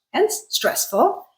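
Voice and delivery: HENCE stressful, slow and high on hence; stress pun, hence emphasised. Shown as a demonstration. Teacher punning on stress, leaning on hence. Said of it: "pun intended".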